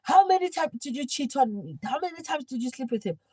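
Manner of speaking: high-pitched accusing questions; mock confrontation; imitating an interrogation. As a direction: grill a cheating partner, mimicking a video. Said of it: "that video of Tau Mokgale when they say".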